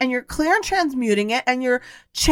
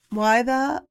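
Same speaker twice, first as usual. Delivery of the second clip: retold angry outburst; 3 semitones higher, 4 dB louder than usual. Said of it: "And I got so angry".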